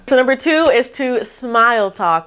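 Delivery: cheerful, smiling voice; smile talk. Shown as a demonstration. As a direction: say it with an audible smile. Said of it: "And I'm demonstrating it right now".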